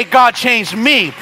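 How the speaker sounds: slow, sincere prayer for oneself; earnest humble plea; right prayer. Shown as a demonstration. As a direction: pray slowly and humbly for yourself. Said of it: "I gotta pray".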